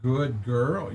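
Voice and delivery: soft, rising praise for a dog. Real, not acted. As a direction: coo it to a good dog.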